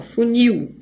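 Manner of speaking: "funil" in two syllables, "fu" then stronger "nil"; divided as FU-NIL. Shown as a demonstration. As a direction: show both syllables of "funil", ending on "nil". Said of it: "Aqui é dividido assim".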